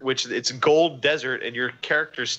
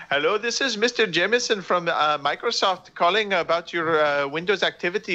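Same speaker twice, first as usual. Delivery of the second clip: a higher, lightly voiced Microsoft scam caller; 5 semitones higher than usual. Mocks the scam callers he gets, lightly voiced fake Microsoft agent. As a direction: play the fake tech-support caller. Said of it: "Usually it's".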